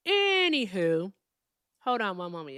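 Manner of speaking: talking around chewing gum; mouth full. Real, not acted. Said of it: "I can't talk with gum in my mouth".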